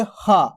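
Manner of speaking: हा with air released from the mouth; airy हा. Shown as a demonstration. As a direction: let the breath out on हा. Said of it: "हवा निकल ली देखो मुंह से". (हा मुंह से हवा निकालकर)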